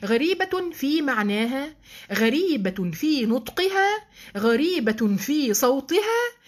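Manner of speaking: slow, each غريبة weighed; drawn-out listing, word by word; slow emphatic list. Acted. (تعداد بطيء مؤكد)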